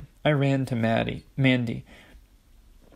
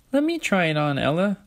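high, eager little-sister plea; pleading Olive; 6 semitones higher, 3 dB louder than usual. A narrator's reading. Olive begs Ella for the necklace, high and pleading. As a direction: beg for a go, pitched up.

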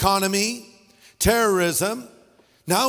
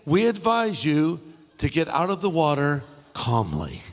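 calm; 3 semitones lower than usual. Retold or imitated. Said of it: "Very calmly".

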